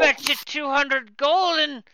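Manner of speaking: put-on shouted slow drunk bet; loud drunk wager. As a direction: bellow the bet.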